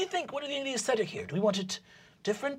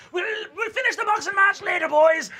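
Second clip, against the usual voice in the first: calling out; 8 semitones higher, 6 dB louder than usual. Acted. Papa calling out.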